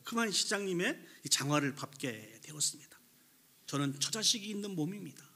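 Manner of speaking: mildly voiced plea for forgiveness; pleading apology. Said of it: "다시 한번 내 잘못을 빌자".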